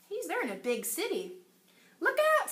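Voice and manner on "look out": high, urgent warning; warning call. Acted. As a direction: call out to the dinosaur. Danny shouts warning.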